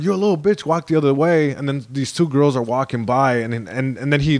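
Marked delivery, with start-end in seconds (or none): 0.0-1.5 imitated bully, pitched up at first; mock aggressive. Gangbanger to comic on street, mock aggressive. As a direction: act out a bully giving orders. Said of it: "he's really aggressive".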